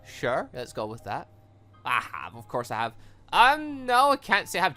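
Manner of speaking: ordinary talk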